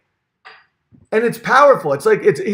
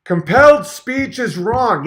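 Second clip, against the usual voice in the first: slow, higher, louder mock pronouncement; Peterson impression; 5 semitones higher, 4 dB louder, slower than usual. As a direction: declare it like a grand truth. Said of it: "talks like a frog".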